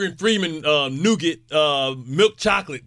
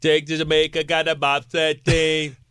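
mock Jamaican. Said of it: "you went Jamaican bobsled team there".

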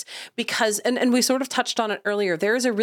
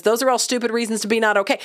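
scoffing adult brain; faster than usual. Retold or imitated. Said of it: "My adult brain goes".

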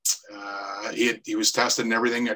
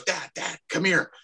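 higher-pitched, retold call across the tables; calling out to dad; 7 semitones higher than usual. Retells son calling his father over.

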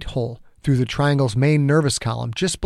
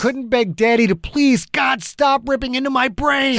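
agonized rising narration; 11 semitones higher than usual. A narrator's reading.

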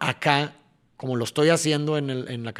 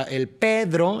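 Pedro drawn out slowly, PE leaned on; stress on PE; 3 semitones higher, much slower than usual. Shown as a demonstration. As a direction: stretch "Pedro", landing on the PE. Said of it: "el P lo voy a poner en el primer tiempo". ("Pedro" lento, cargando en el PE)

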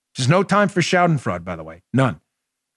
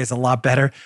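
usual speaking voice

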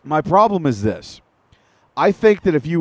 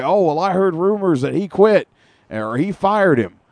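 a lightly voiced, higher announcer parody; mock commentator; 5 semitones higher than usual. Host mocking the commentators' rumor talk, raised mock voice.

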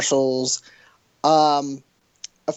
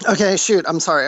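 talking through a mouthful of ice cream; words round a spoonful; mouth full; 4 dB louder than usual. Real, not acted. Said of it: "I'm eating ice cream".

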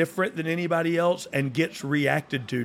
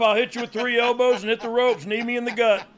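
higher and louder, calling the spots; loudly announcing each move; mock Cena impression; 7 semitones higher, 4 dB louder than usual. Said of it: "Cena just goes".

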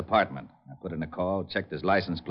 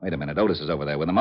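ordinary delivery

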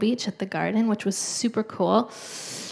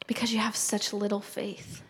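soft whispered rebuke; 8 dB quieter than usual. Retold or imitated. Friends' answer retold.

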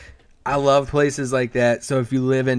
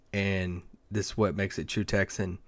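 usual speaking voice

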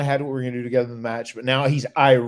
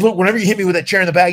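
higher, louder, fast irritated warning; testy warning; 6 semitones higher, 7 dB louder, faster than usual. Retold or imitated. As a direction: bark it at him, cranky and hurried. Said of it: "He was really, really testy".

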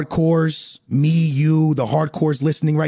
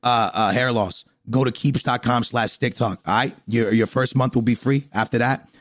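low, easygoing ad read; casual sponsor read; 7 semitones lower than usual. Acted. Host thanks podcast sponsor, casual low ad read. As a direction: deliver a chatty sponsor plug in a lower register.

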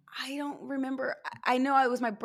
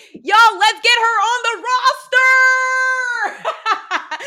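loud excited shout; 13 semitones higher, 14 dB louder, slower than usual. Retold or imitated. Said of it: "She's like".

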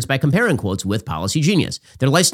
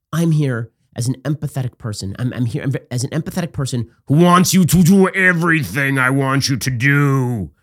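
mock empathetic Harris. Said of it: "Kamala Harris's shtick was".

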